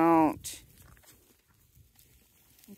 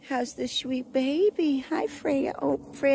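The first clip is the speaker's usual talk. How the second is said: higher, sing-song cooing; 5 semitones higher than usual. Real, not acted. Owner greeting the baby goat Freya, high cooing baby talk.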